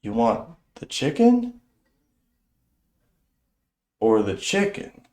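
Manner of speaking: slow, spaced-out drawl of a lightly voiced stoner; a dazed counter worker offering a pointless choice, slow and vacant; slow stoned voice. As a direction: stretch each word like a mind in a fog. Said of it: "the guy at the counter goes".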